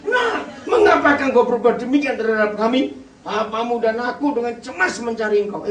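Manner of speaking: angry mother's scolding, high and loud; Maria. Shown as a demonstration. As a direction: shout it as an emotional reproach. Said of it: "Emosi nih Maria".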